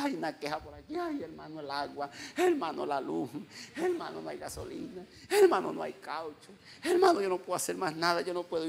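imitated whiny complainer, each plea starting on a wail; mock whining. Pastor imitating members who complain about water and gasoline, mock whining. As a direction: whine through a list of woes. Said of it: "que es una lloredera".

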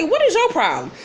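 high-pitched, affronted question; mock indignant challenge. Retold quarrel, Desna challenges Ann.

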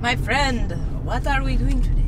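vampire voice. Pretend. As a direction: greet your friend like a hammy vampire. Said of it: "I like the vampire voice".

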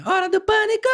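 high, far announcer call of Hora do Pânico; mock TV host yelling the show name; TV show shout. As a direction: belt it like the show's opening call. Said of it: "Fala tipo a do Pânico lá, que o Bola".

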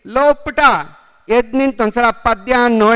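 stern schoolmaster calling a pupil; teacher calling out. Acted. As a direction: summon the boy sharply, loudly.

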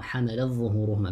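حملت with its ت merged into ظهورهما; idgham. Shown as a demonstration. Teacher sums up Warsh's reading for students, idgham. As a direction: run حملت into a doubled ظ of ظهورهما. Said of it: "بالإدغام".

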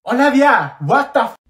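high, loud yell of the name; furious, cut-off outburst; exasperated shout. Acted. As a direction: explode and cut the rambler off. Cutting off the rambler.

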